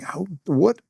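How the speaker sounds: sarcastic inner critic; mocking inner voice. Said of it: "I remember thinking".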